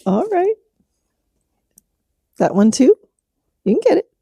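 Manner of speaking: high pet-talk voice cheering the horse on; cooing to the horse. Real, not acted.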